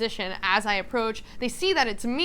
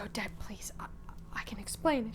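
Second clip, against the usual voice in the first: soft pleading; 7 dB quieter than usual. Acted. Milos pleads with Odette.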